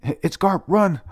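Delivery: high, loud panicked yell; loud frightened cry; mock scream. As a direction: yell it like a fleeing monster. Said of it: "one of them scream".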